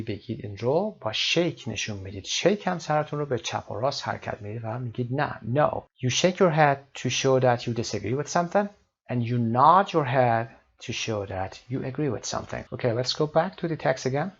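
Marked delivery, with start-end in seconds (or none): 6.0-12.6 slow, deliberate English read-out; measured classroom reading; teacher reading aloud. Acted. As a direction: read it out slowly for learners. Explains in English to learners.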